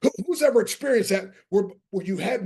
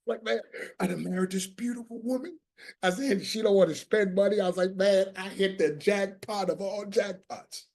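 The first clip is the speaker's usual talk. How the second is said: hushed marveling; 5 dB quieter than usual. Retold or imitated. Husband marveling at frugal wife.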